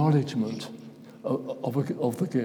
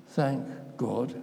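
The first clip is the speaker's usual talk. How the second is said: meant sincerely; 3 semitones lower, 6 dB quieter than usual. Shown as a demonstration. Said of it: "did they mean what they said".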